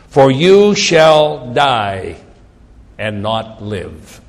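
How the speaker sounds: slow, weighty scripture reading; slow prophetic pronouncement; scripture declamation. Acted. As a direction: proclaim the verdict slowly, word by word. Reads scripture aloud.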